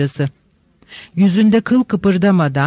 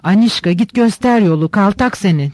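a touch of angry yelling at the maid; angry shout. Acted. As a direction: snap an order at the servant girl. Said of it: "hışımla ... diye bağırdı". (hışımla bağıran)

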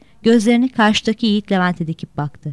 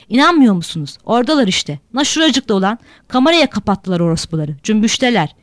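put-on louder, drunken jeering at the boat; drunken yelling; 4 dB louder than usual. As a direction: jeer drunkenly across the water. Drunk Fatoş yells at the boat. (sarhoş, bağırarak alay)

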